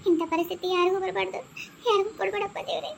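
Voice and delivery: soft, crying plea to god; tearful prayer. Acted. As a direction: weep quietly through the words. Wife laments alone, praying.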